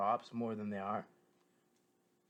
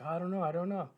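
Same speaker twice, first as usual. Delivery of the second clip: quoting Danza; 7 semitones higher than usual. Retold or imitated. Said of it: "He's like".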